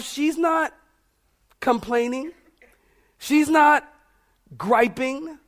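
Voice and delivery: "not" lifted high and punched; stress on not. Real, not acted. Preacher insisting Martha is not complaining, stressing "not". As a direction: lean on "not" each time. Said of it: "preacher emphasis on not".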